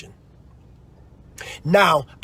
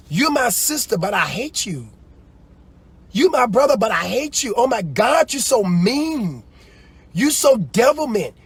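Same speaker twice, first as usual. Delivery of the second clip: higher pitched mock sibling spite; mock hateful sibling; 5 semitones higher than usual. Mean sister mocking her brother, lightly voiced. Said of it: "some people say".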